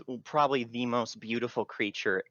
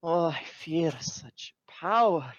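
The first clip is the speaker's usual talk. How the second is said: high fairy voice; 7 semitones higher than usual. Acted. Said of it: "She's like".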